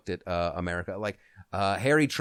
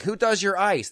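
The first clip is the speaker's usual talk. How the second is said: Trump voiced; 9 semitones higher, 5 dB louder than usual. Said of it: "And he's like".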